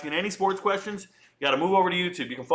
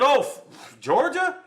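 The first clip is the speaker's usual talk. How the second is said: high, emphatic reenacted call; retold prediction; 7 semitones higher than usual. Retelling his Georgia prediction to chat, raised and emphatic. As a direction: replay your old hot take with gusto. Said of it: "I said".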